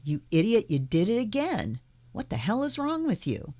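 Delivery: mild mock scolding, rising high on the last line; half-hearted telling-off of yourself; berating yourself. Teacher imitating inner critic berating self, mildly. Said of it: "Don't do it by berating".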